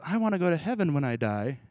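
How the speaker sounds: lightly put-on wishful believer; mock wishful voice. Preacher mimicking how Paul doesn't talk, lightly mocking. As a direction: gently send up a simplistic hope of heaven. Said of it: "I don't think Paul talks like this either".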